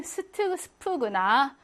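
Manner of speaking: 스트, 스프 with a thin s; plain s. Shown as a demonstration. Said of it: "중간이나 끝일 때는".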